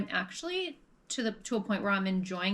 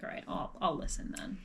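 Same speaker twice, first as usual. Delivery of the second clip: quiet aside; 6 semitones lower, 6 dB quieter than usual. Retold or imitated. Imagined inner reaction.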